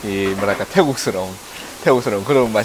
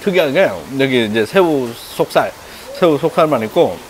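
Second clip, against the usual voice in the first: talking while chewing. Real, not acted. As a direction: hand over mouth. Seen 0: Ate a dumpling at -9; chews while talking, hand covers mouth at 3.5.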